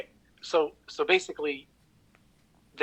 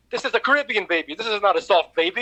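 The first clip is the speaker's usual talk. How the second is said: mock Caribbean driver; 5 semitones higher, 3 dB louder than usual. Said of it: "he goes".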